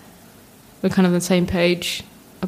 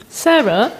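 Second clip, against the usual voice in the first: a loud, higher call of her name; 5 semitones higher, 5 dB louder than usual. Retold or imitated. Girlfriend calls out after spotting her mess. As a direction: call her name like you found something.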